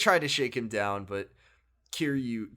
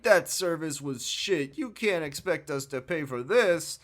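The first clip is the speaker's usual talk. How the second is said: slow, higher indignant complaint; mock rude customers; 5 semitones higher than usual. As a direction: complain like a bully. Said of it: "They're like".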